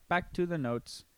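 stiff, even robot delivery. Retold or imitated. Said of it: "Sometimes you say it like a robot".

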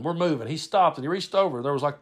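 plain reading voice

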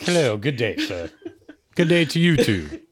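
a mock upper-class British accent, laughing at the end; hammed-up posh British accent greeting. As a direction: play a prim Englishman in a British accent. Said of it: "British porn is like, uh, super proper".

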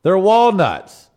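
loud, slow, mock-serious proclamation; hammed-up announcement. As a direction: deliver it like a grand pronouncement. Hammed-up reading of listener request.

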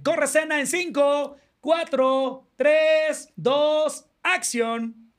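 mock film director countdown; cuenta de director. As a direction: count it down slowly to action. (cuenta regresiva de director)

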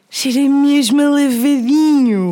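slow, affected, savouring each word. Acted. Selling the Dare perfume in a slow, affected voice. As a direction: drawl it out like a posh lady selling perfume. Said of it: "A entuação é que tu fizeste".

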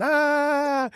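high, loud mock scream. Soldier mimics a deserter screaming into the woods, mock scream. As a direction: yelp it like a man running off screaming. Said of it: "run into the woods screaming".

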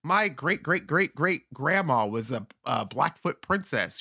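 laughing high no then a proud claim; imitating someone bragging of a princess ancestor; mock wannabe native claim. Mocking a friend who claims native roots. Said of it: "And they're like".

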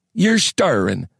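put-on high old-timer's rasp; harsh, gravelly old man. A narrator's reading. Old man to the waking miners, harsh high voice. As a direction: speak high and creaky as an ancient tramp. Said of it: "voice was harsh and gravelly".

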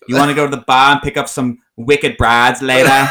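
put-on Boston accent, wicked and all; New England accent. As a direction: play a Boston bro. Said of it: "that's pretty accurate".

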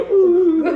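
high shaky mock whimper; a quivering lip noise; trembling uh. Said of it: "tem aquela tremida na boca".

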